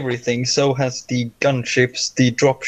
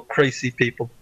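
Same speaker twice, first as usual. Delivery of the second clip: mumble; 6 dB quieter than usual. Acted. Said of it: "you hear him mumble".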